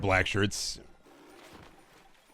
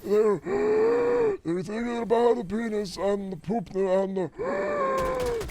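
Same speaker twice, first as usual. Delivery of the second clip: higher, slow Trump voice with a gasp; Trump impression; 10 semitones higher, slower than usual. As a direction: stereotypical podcast Trump bit. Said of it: "stereotypical me when I do a Trump impression".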